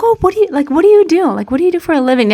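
high-pitched imitation of a prying stranger; nosy stranger. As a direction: mimic someone eagerly fishing for details. Nosy stranger voiced asking personal questions.

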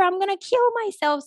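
high pitched mock wail of a threat; voicing the date's hysterical cry; imitating a desperate threat. Retelling her date's gun threat, high mock wail.

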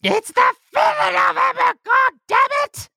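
hammed-up British accent shouted high. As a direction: bellow it in an over-the-top British accent. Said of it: "added a little British accent there at the end".

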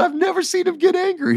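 very high-pitched, baffled protest; retold disbelief. Wrestler tells writer he never saw the boss angry, incredulous.

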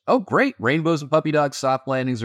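mock-cheerful, sarcastic and high. Real, not acted. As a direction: roll your eyes at the good news. Sarcastic dismissal of rosy data.

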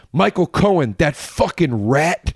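mock Brooklyn disgust, last words drawn out; Michael Rappaport. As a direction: imitate a blunt Brooklyn insult. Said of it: "he's also super Brooklyn".

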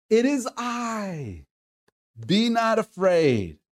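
drawn-out, measured call; stretched-out scripture call, lightly acted. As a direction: read it as a slow call across water. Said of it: "Jesus calls out to them".

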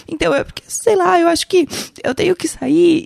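mild imitation of crying while quitting; a touch of tearful hesitation; retold teary resignation. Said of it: "e eu tava assim".

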